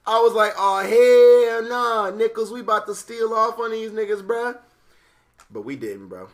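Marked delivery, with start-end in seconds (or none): 0.1-4.6 higher, louder street persona voice; Jamichael voice. Retold or imitated. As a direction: slip into the loud street persona. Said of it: "sometimes I'm Jamichael".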